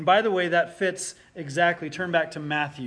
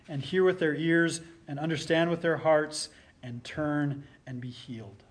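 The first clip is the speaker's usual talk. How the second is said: scripture reading. Acted. Pastor reading Isaiah's vision aloud to the congregation, solemn scripture reading. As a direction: read it like the prophet's vision unfolding.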